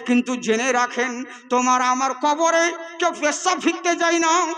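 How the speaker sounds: fervent sermon delivery, pushing each line out to the crowd; preaching. Acted. Preacher rousing the faithful at a jalsa, fervent preaching. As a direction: preach it with full fervour.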